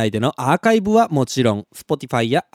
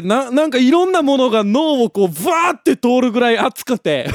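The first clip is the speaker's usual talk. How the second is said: raised, laughing, fast-rising telling; nearly shouting through laughter, caught up in the story; excited half-shout; 7 semitones higher than usual. Real, not acted. Excitedly recounting the unbearable heat. (笑いまじりに声を張り上げて)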